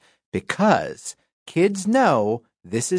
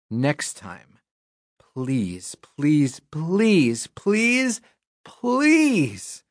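begging; much slower than usual. Acted. Reader begging.

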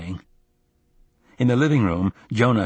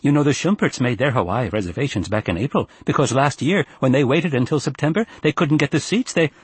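higher-pitched, lecturing mother; severe mother; 5 semitones higher than usual. Acted. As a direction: press the point in a higher voice. Enid lecturing on reservations.

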